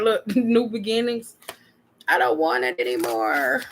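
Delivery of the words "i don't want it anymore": much lower and slow, flat finality; low deadpan. Acted. Vlogger repeating the fed-up line to viewers, low and slow. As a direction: drag it out low like a tired sigh.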